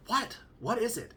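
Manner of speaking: high-pitched wife impression; imitated wife. Wife answering husband's call, high imitated voice. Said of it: "she's like".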